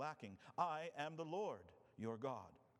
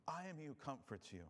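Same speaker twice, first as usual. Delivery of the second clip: gentler, softer second reading; a quiet reassuring echo; softer repeat; 2 semitones higher than usual. Shown as a demonstration. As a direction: let it land tenderly. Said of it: "repeated line".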